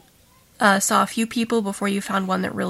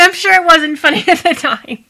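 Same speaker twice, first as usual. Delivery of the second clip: higher and louder, laughing through the words; laughing apology; 8 semitones higher, 8 dB louder than usual. Real, not acted. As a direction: laugh while saying sorry. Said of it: "I'm sorry for laughing".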